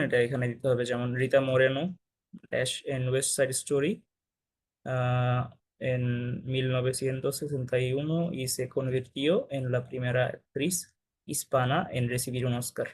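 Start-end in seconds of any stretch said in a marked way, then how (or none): 1.1-12.9 slow, quiet read of a Spanish sentence; slow classroom reading; slow reading aloud. Shown as a demonstration. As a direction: read the example slowly for the class. Teacher reads example sentence slowly.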